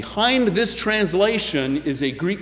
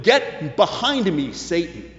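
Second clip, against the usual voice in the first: retort; 3 semitones higher than usual. Retold or imitated. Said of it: "when he retorted".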